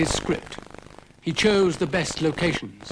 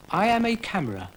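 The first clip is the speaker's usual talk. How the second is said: higher, quick snail voice; snail Brian; 8 semitones higher, faster than usual. Acted. Brian the snail playing camera, quick and high. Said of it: "said Brian".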